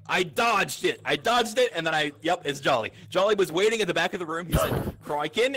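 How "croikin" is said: lightly imitated Australian accent; a hint of broad Australian vowels. Player quoting the attacker, light Australian accent. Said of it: "in his Australian accent".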